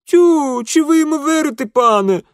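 put-on very high, loud, fast blurt of the old watchman. A narrator's reading. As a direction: blurt it out in a rush. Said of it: "вдруг выпалил Юхим". (выпалил высоко и быстро)

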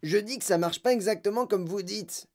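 a touch of hollering; mild mock yell. A narrator's reading. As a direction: yell it as a boy, without real volume. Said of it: "hurla Mike T V".

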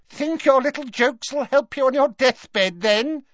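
high, loud mocking jeer. A narrator's reading. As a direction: sneer it out, high and cruel. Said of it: "she jeered".

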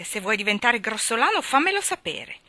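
a hint of a starchy aunt's rebuke; lightly voiced offended wife; Mrs Glegg, stiff. Mrs Glegg scolds her joking husband, lightly voiced. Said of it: "disse missus Glegg".

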